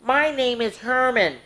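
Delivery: friendly voice. Acted. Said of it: "said a friendly voice".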